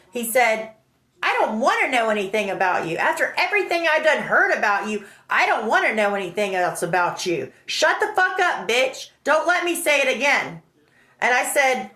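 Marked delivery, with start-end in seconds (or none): 1.2-10.6 retold angry tirade. Friend who heard bad things about her, angry tirade. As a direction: imitate an angry man shutting someone down.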